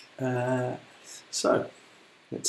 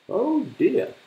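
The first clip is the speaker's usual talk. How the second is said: much higher, louder dismayed oh dear; worried hippo; 13 semitones higher, 7 dB louder than usual. Acted. Hippo fearing the crocodile's plan, high alarmed voice. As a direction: gasp it out in sudden alarm. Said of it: "said Humpy Rumpy".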